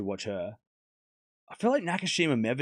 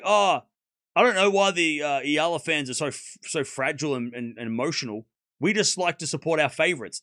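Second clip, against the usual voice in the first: mock whiny fan. Mocking fans' fake excuse.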